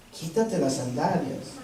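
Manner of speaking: hushed command. Acted. Preacher voicing the Lord to retreat listeners, hushed. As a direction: let the Lord's words fall quietly.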